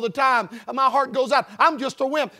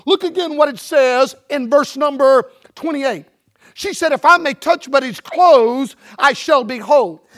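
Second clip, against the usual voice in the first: loud, emphatic preaching; forceful scripture reading; 7 dB louder than usual. Acted. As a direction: proclaim the verse to the whole congregation.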